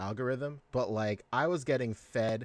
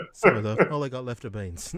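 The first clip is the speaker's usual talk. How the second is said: put-on British accent; 2 semitones lower, faster than usual. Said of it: "repeat of quote".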